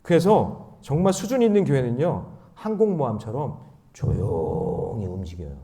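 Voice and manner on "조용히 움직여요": low, soft, slow illustration of quietness; hushed, as if gliding in silently; hushed and stretched. Shown as a demonstration. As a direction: draw out 조용히 in a lowered, softer voice. Acting out a silent carrier.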